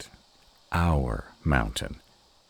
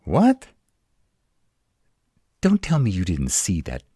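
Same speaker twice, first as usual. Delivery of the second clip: sharp high loud what; shocked; 4 semitones higher, 6 dB louder than usual. Acted. To partner who saw no web, shocked yelp. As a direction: yelp in disbelief.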